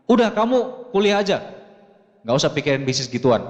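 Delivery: father losing patience on the phone; mildly angry father. Retold or imitated. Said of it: "Nadanya udah naik".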